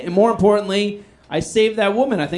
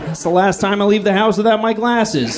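shocked attacker; 5 semitones higher than usual. Pretend. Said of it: "if he was like".

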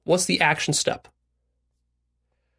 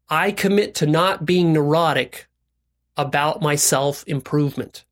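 slow, measured pledge; deliberate recitation; slower than usual. Shown as a demonstration. Coach modelling a commitment for listeners, deliberate recitation. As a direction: say it slowly for others to repeat.

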